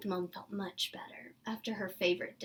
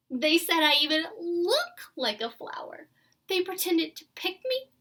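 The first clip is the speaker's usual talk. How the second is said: higher, louder, upset complaint; tearful; 7 semitones higher, 12 dB louder than usual. Acted. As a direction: pour out the hurt to your parents. Crying child tells parents.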